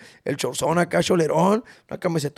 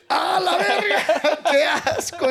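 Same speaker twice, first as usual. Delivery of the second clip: disgusted fans; 11 semitones higher, much slower than usual. Retold or imitated. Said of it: "y de repente acá".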